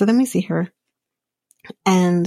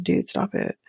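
whispering; 6 dB quieter than usual. Retold or imitated. Retold telling friend to stop.

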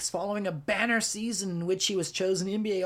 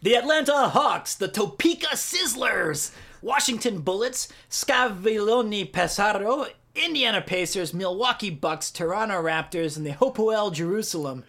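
fighting game announcer; 2 semitones higher than usual. Pretend. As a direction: call out each team like a fight intro. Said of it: "in your announcer voice".

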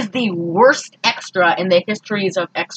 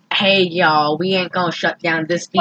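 put-on southern accent; 3 semitones lower than usual. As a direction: play the mayor with a hint of southern twang. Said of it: "Why does everyone have a southern accent".

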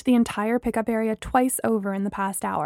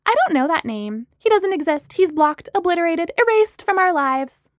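disdainful; 7 semitones higher, 4 dB louder than usual. A narrator's reading. Friend theatrically disowns Apollo.

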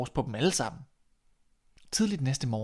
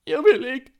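high, loud panicked refusal; protesting shout; 12 semitones higher, 11 dB louder than usual. A narrator's reading. The king shouts his refusal at the huge dog, high and loud. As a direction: yell no as you're grabbed.

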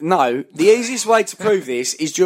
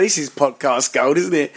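words pushed through a mouthful of crisps, with a laugh; talking while eating a crisp; 4 semitones lower than usual. Shown as a demonstration. Showing the hosts how he sounds talking with a mouthful of crisps. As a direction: mimic chewing a crisp mid-sentence. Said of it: "This is how I'm talking and eating a crisp".

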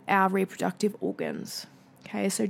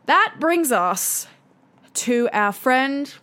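slow, drawn-out build-up to a reveal; stretched, slightly raised mock-fanfare; mock-grand introduction; 3 semitones higher, 4 dB louder, much slower than usual. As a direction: introduce it with playful ceremony, taking your time.

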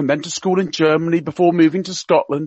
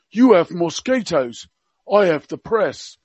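Prince Philip in Cockney. Retold or imitated. Radio guest quoting royal gaffes to listeners, mock Cockney accent. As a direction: play the old duke's gaffes in mock Cockney. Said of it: "he spoke with a Cockney accent".

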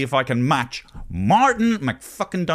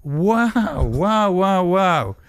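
awestruck; 5 semitones higher, slower than usual. Acted. Local awed by the hangman.

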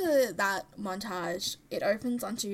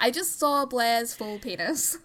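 laughing; 3 semitones higher, 6 dB louder than usual. Retold or imitated.

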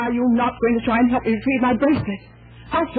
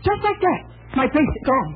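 agitated; 5 semitones higher than usual. Acted. Victim retelling the theft.

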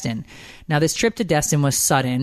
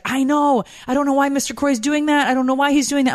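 much higher put-on voice for the nanny; imitating the nanny; 11 semitones higher than usual. Nanny answering the worried mother, high imitated voice. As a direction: play the nanny, pitched up and helpless. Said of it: "and she's like".

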